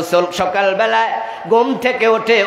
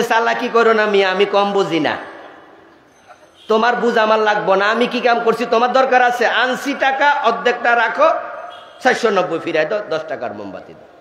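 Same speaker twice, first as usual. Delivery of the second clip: higher-pitched mock indignation; acted scolding; 4 semitones higher than usual. Old man to shopkeeper over the torn note, mock scolding. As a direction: tell him off as the indignant customer. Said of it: "দোকানদার উল্টা ধমক দিয়ে বলবে".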